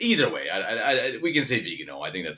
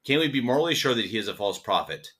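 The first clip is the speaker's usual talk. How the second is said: deliberate read-aloud of a statement; slow reading; 3 semitones higher than usual. Real, not acted. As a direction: read it carefully, pausing between sentences. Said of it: "I'm gonna read it slowly".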